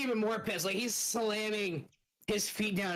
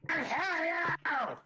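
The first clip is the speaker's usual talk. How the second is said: slow, drawn-out, higher angry brute cry; game master voicing a furious monster, slow angry bellow; angry monster roar; 8 semitones higher, much slower than usual. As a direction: stretch it out like an enraged brute. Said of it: "angry, deep tone of voice".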